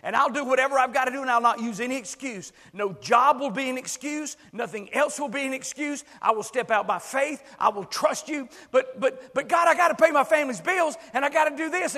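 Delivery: voicing a listener's fervent confession; earnest prayer. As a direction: pour it out to God. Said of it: "come to God and say".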